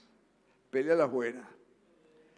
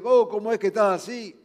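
mock reproach; 3 semitones higher, 5 dB louder than usual. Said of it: "esa palabra que viene y dice".

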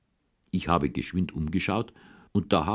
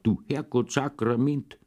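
angry curse; 6 semitones higher than usual. A narrator's reading. Farmer curses turning back.

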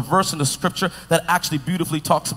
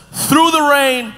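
reading aloud together. Shown as a demonstration. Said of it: "One, two, three, go".

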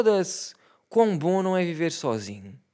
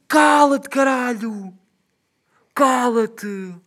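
higher, louder snapping shut up; irritated shout; 6 semitones higher, 3 dB louder, much slower than usual. Retold or imitated. Son snapping at father shouting in the morning, irritated yell. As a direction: bark it at him.

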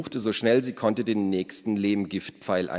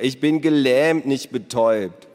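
loud, higher-pitched annoyed comeback; exasperated and emphatic; indignant retort; 5 semitones higher, 8 dB louder than usual. A narrator's reading. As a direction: throw it back at a silly brother. Paralysed girl snaps at her brother.

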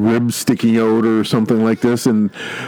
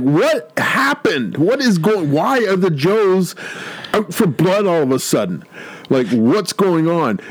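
baffled Cobra Commander; 5 semitones higher than usual. Retold or imitated. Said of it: "Cobra Commander goes like".

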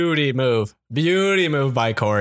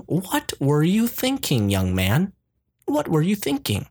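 disappointed white mom; 5 semitones higher than usual. Retold or imitated. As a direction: play the let-down mother. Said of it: "classic disappointed white mother question".

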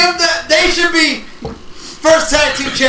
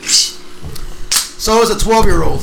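zing; 5 semitones lower, much slower than usual. Real, not acted.

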